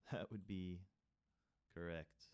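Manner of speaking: laughing. Real, not acted.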